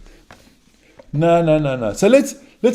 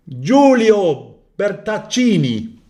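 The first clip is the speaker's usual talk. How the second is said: slow, careful best-effort Italian name; mock Italian pronunciation; Italian accent; much slower than usual. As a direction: roll it out like a proud Italian. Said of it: "I did my best Italian".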